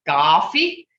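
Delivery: Coffee with a firm rise at the end; native pronunciation of coffee. Shown as a demonstration. Teacher showing the students how Coffee is said in their language. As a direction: say Coffee the way the elders borrowed it. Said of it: "We say coffee".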